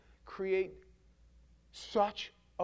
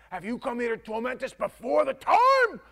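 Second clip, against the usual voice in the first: a hint of a louder, higher demon voice; lightly voiced demon; 7 semitones higher, 10 dB louder than usual. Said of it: "who knows what kind of voice came out".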